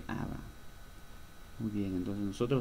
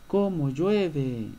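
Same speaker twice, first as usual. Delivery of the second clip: slow, louder grumble about the rain; angry pirate; 5 semitones higher, 6 dB louder, much slower than usual. Acted. The buccaneer in the story grumbling angrily about the rain. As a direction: drag out the complaint, annoyed. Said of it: "decía enojado".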